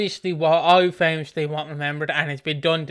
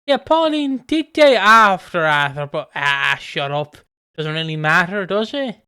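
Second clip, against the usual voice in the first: dismissive mock writers; 5 dB louder than usual. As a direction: wave the question away. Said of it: "revision history where it's like".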